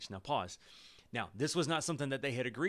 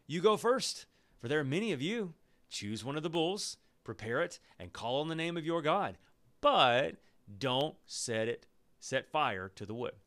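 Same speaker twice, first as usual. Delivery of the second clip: challenging; 2 semitones higher, 3 dB louder than usual. Acted. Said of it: "Elijah said to the prophets of Baal".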